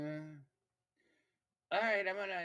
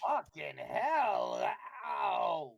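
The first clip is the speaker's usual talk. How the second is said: pained cursing; 6 dB louder, much slower than usual. Acted. Player reacts to cold damage.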